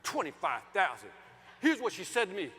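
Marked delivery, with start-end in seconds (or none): 0.0-1.1 lower, measured authority; authoritative. Retold or imitated. Husband repeating the budget to his wife, authoritative. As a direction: state it as the final word.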